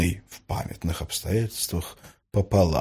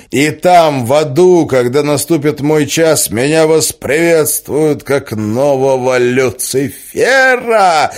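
triumphant gloating; 4 semitones higher, 6 dB louder than usual. Acted. Villain gloats before the kill.

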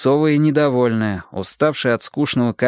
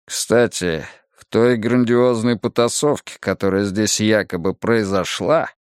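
a touch of dislike, pitched down; hostile mutter; 2 semitones lower than usual. Acted. Detective Gilpin doubts the fight happened, muttering with dislike. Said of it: "с неприязнью пробормотал Джилпин".

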